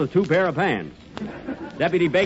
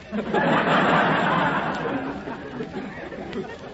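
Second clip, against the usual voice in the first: breathy laugh; 8 semitones higher than usual. Acted. Sheriff laughs at pun.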